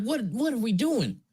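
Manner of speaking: high-pitched mock Jamaican accent; fake Jamaican accent. Quoting the drunk man's fake accent, mock Jamaican. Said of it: "putting on a fake fucking Jamaican accent".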